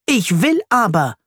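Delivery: half-hearted narrated shout; mild childish yell. A narrator's reading. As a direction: insist like a defiant little boy. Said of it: "schreit er".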